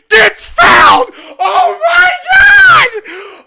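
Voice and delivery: high, full-throated disbelieving shouts; ecstatic screaming. Real, not acted. Streamer calling a last-second basket, screaming in ecstasy. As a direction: lose your mind over a miracle play.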